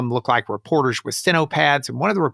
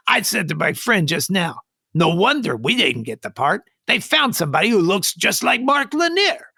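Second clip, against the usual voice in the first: imitated Hispanic accent, pitched up; 7 semitones higher than usual. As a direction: grumble it in a put-on Hispanic accent. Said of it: "a Hispanic accent".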